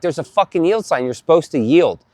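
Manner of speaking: retold annoyed scolding, mildly heated; pissed off. Driver to the man who hit him, retold irritation. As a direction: lightly act out telling someone off. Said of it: "I'm, like, pissed off".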